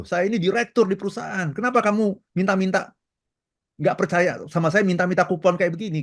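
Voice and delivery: high, indignant self-importance; mock outraged "I'm important"; retold angry boast. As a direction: puff up like an offended boss. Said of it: "dia marah sekali dan dia memaki".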